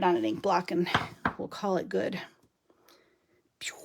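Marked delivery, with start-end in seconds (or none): 3.6-3.7 mock laser pew. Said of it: "Gotta do sound effects too".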